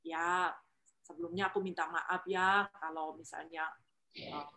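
soft, careful apology before giving an opinion; humble and polite. Shown as a demonstration. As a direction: ask permission gently, humbly. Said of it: "gunakan kalimat, intonasi, tekanan, nada itu dalam kerendahan hati".

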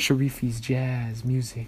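slow, smooth late-night DJ voice; mock radio announcer, slow; smooth radio host. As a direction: croon it like a jazz station host. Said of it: "you want me to read slowly?".

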